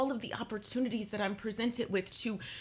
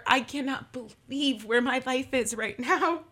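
tearful gratitude; 2 semitones higher, 4 dB louder than usual. Real, not acted. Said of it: "I'm not crying because I'm sad".

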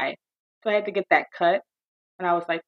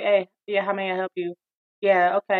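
uninterested phone answer. Shown as a demonstration. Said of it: "I'm not gonna answer the phone like".

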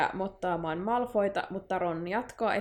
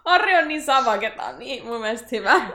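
gleeful praise; 3 semitones higher, 8 dB louder than usual. Real, not acted. Reader thrilled by Harry's comeback, loud and delighted. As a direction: cheer him on with delight.

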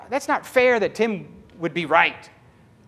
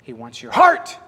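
voice of God; 10 semitones higher, 6 dB louder, slower than usual. Retold or imitated. Divine download heard.

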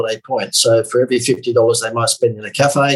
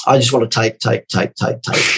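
sarcastic greed. Pretend. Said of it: "that's your sarcasm".

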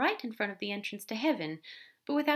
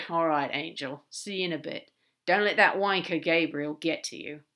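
lightly voiced demon; 2 semitones lower, 5 dB louder than usual. Crowley signing off to Aziraphale, lightly in character. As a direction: lightly play a fond, irreverent demon.

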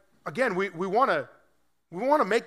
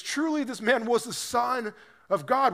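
higher, rising with wonder; a soldier stunned by what he just saw; amazed centurion; 5 semitones higher than usual. Retold or imitated. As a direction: blurt it out in astonishment. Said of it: "he looks at this guy and he says".

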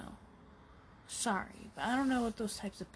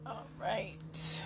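"All right" said through a yawn. Real, not acted. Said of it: "Sorry for the yawning".

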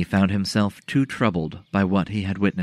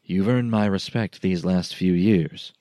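slow, patient and calming; slower than usual. Acted. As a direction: speak slowly so as not to spook him. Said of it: "keeping his voice slow and patient".

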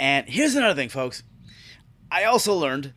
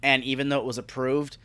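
mock HR clerk; 3 semitones lower, 4 dB quieter than usual. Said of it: "he goes".

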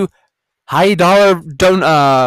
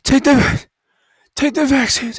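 mocking quote; 7 semitones higher than usual. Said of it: "everyone's saying".

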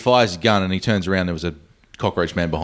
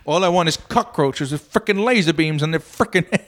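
movie villain quote; 8 semitones higher than usual. Pretend. Quoting a movie villain line.

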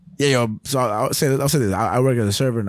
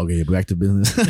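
mock businessman; 4 semitones lower than usual. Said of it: "and then you see a dog".

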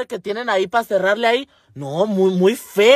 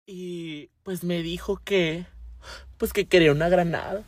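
fake crying plea; 4 dB quieter than usual. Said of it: "Hasta lloró".

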